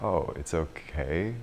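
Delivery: relieved realization. Retold or imitated. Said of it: "this guy just totally relaxes".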